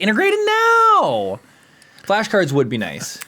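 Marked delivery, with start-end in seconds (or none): 0.0-1.4 high exasperated shout; exasperated yell. Retold or imitated. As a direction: demand it loudly. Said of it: "I was like".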